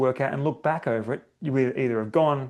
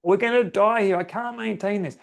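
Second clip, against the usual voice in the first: panicky inner chimp; 7 semitones higher than usual. Retold or imitated. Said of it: "'cause your chimp's like".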